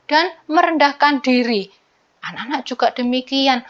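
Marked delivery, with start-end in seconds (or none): none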